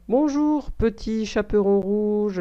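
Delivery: un loup qui se fait gentil, à peine joué; voix de loup aimable, légèrement esquissée. Acted. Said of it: "d'un ton aimable". (le loup salue le Petit Chaperon rouge, d'un ton aimable léger)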